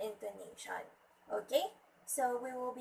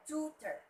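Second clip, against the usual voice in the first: "tutor" as TOO-ter with a falling end; first-syllable stress; 5 semitones higher than usual. Shown as a demonstration. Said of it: "the stress should be at the first syllable".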